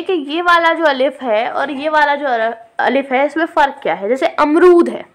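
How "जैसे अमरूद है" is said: अमरूद with a short, light अ; short a in amrood. Shown as a demonstration. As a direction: say अमरूद with only a small अ sound. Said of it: "आ की कितनी आवाज़ आ रही है". (अमरूद में छोटा अ)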